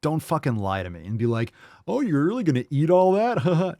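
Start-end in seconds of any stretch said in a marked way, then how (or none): 1.9-3.8 high, loud mimicry of a nosy guest; exaggerated, higher-pitched incredulous question; mock judgmental. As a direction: imitate someone scolding over food.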